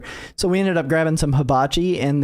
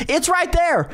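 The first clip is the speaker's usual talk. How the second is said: put-on much higher, piping child pointing; little kid voice; 12 semitones higher, slower than usual. Little brother pointing out the hornet, high piping kid voice. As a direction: squeak it out like a small boy.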